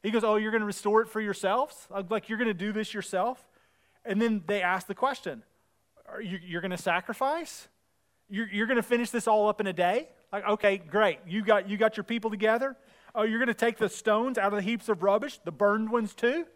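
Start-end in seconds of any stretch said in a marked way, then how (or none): 0.2-3.5 acted-out belittling doubt; imitating a scoffing bully; mock jeering. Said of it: "he basically starts calling them weak ones". 6.1-16.5 loud, acted-out sarcastic questions; imitating a scoffing bully; mock jeering. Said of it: "he jeers and he goes".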